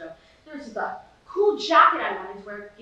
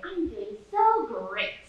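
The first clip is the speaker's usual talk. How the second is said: feigned contentment; much slower than usual. Retold or imitated. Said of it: "I usually say".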